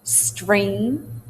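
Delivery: STREAM with a gliding E; long E diphthong. Shown as a demonstration. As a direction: draw STREAM out, sliding through the vowel. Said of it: "long E sound is turned into a diphthong".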